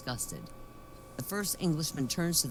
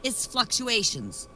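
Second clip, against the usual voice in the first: slow fluctuations; 4 semitones higher, slower than usual. Retold or imitated. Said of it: "the lady says".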